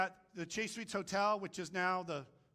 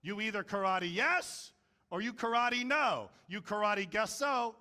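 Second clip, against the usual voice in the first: louder, light imitation of a Japanese-accented mentor; Mister Miyagi; 4 semitones higher, 5 dB louder than usual. Mister Miyagi teaching Daniel about karate, imitated Japanese accent. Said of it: "and he says".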